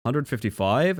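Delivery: rising, doubtful hundred fifty-five; surprised question. Real, not acted. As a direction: ask it back in disbelief. Reading a race time, unsure.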